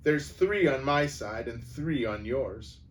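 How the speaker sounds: mock the king's sword, defiant; defiant sneer. Dwarf defiance.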